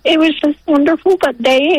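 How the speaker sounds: ordinary talk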